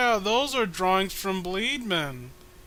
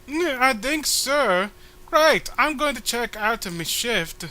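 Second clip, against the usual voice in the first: slow groggy hungover voice; 6 semitones higher, slower than usual. Acted. Voicing hungover comic character.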